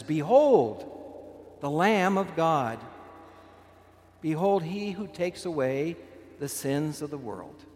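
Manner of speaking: lightly voiced priest lifting the host, announcing it; proclaiming priest. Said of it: "and says".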